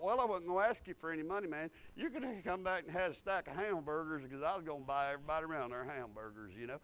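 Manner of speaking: retold thought under the breath; private thought. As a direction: mutter it to yourself, fast and soft. Retold private thought, muttered aside.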